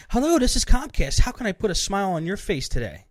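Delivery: an overly pleasant customer service welcome; pleasant agent. Retold or imitated. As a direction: chirp it like a cheery call-centre agent. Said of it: "The first lady I talked to was so pleasant".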